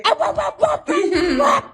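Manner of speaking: dog yapping. Acted. The feisty dog Marshmallow yapping at the sitter, shouted. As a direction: yap at the stranger like a feisty small dog. Dog owner voices barking dog.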